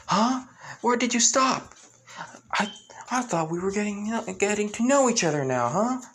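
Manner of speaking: high, mocking young woman's voice; a sly woman needling him, pitched high; Aora's teasing voice. Aora voiced in story.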